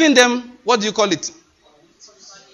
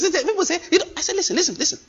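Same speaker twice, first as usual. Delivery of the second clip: laughing; 10 semitones higher, 3 dB quieter, faster than usual. Real, not acted. Laughing while recounting argument.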